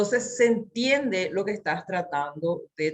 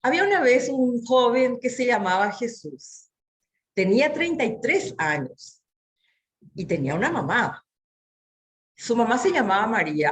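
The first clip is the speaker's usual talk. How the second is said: bright, lively once-upon-a-time telling; lively children's story voice; storytelling voice; 3 semitones higher than usual. Shown as a demonstration. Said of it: "la tonalidad que utilices".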